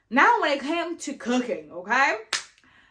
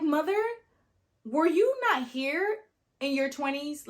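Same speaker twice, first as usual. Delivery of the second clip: incredulous; 6 semitones higher than usual. Retold or imitated. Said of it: "I'm like".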